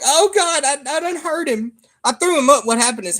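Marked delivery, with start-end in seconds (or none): 0.0-1.7 higher, alarmed gasp of a worried dad; a touch of retold dad panic; mock panic. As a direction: replay the moment you thought you hurt him. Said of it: "I'm like".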